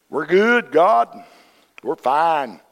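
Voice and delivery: high, loud, breezy self-assurance; hammed-up smug denial; mock complacent. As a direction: brush it off as if nothing's wrong. Church claiming all is well.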